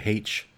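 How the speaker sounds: H said as "haitch"; H pronounced "haitch", as in the UK office; British office H. Shown as a demonstration. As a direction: say H with an audible h, "haitch". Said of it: "they all say".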